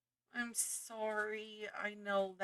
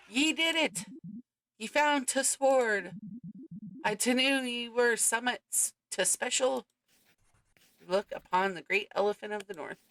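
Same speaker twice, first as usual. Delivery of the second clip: exaggerated Northern English, higher and louder; over-the-top Northern English cheer; hammed-up Northern accent; 4 semitones higher, 7 dB louder than usual. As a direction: play a cheerful stage Northerner. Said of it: "Northerners don't really talk like this".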